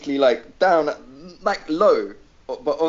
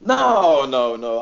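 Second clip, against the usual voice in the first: emphatic no; 4 dB louder, much slower than usual. Real, not acted. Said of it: "I'm getting angry".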